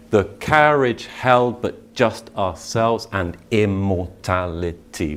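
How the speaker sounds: slow, measured recital of the verse; poetry recitation. Shown as a demonstration. Teacher reciting Dickinson to the class, slow and measured. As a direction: let each word land slowly.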